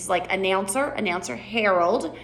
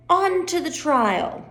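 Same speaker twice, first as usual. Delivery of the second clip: slow announcement; 7 semitones higher, slower than usual. Shown as a demonstration.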